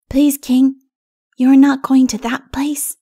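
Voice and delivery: high-pitched small child voice, voiced and urgent; little child's plea. A narrator's reading. Little one on elephant to king, pleading child voice. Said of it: "whispered the little one".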